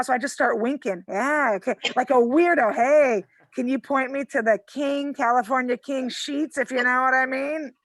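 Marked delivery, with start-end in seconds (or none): 2.7-7.7 creepy suggestive ask. Retold or imitated. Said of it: "Like some pervert".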